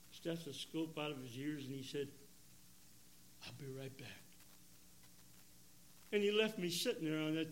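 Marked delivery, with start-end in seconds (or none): 3.4-4.2 a hushed, soft-spoken doctor saying it softly; quiet doctor. Retold or imitated. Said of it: "he was a very quiet man".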